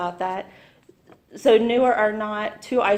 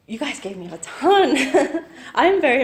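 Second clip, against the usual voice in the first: laughing; 5 semitones higher, 6 dB louder than usual. Real, not acted. Nervous speaker laughing at start.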